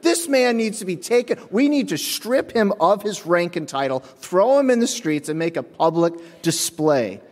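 hammed-up call for punishment; mock fury. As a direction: rant like demanding a public trial. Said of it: "I said".

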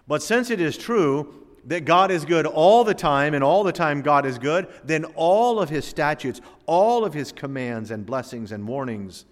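loud, rising sermon build on all; preaching at full force. Acted. Preacher pressing the congregation, preaching at full force.

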